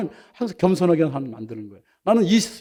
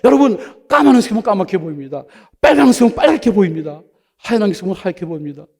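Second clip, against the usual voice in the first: loud, high mimicry of an old elder's sermon; preaching elder; 3 semitones higher, 7 dB louder than usual. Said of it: "또 설교하는 거야".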